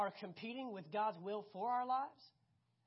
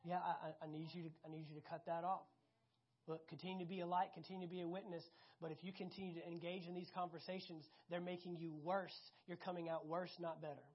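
softer, lower voice of God; hushed, lower, steady Lord's voice; gentle Lord; 5 semitones lower, 9 dB quieter than usual. Acted. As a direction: lower and softer, calmly firm. The Lord keeps speaking.

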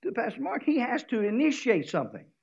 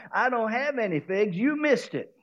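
taunting tree. Acted. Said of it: "the fig tree says".

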